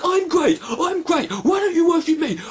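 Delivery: lampoon an arrogant God; mocking God. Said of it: "It's like".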